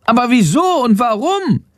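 high, squeaky little bat voice. A narrator's reading. Bat asks. (hohe Fledermausstimme, aufgeregt erzählend)

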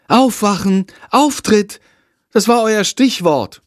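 high, impatient teacher calling the cast. A narrator's reading. Teacher rousing her sleepy actors, high and impatient. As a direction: clap them awake, irritated.

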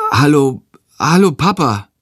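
a dazed greeting with a catch in the voice; stunned. Acted. Boy seeing his father with a baby, stunned hello. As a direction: caught off guard, half choked. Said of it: "sagt er verdattert".

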